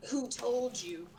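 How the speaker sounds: slow, wary question as the blacksmith woman; blacksmith lady asks. Acted. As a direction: ask it slowly, suspicious. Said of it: "she's gonna turn around and go".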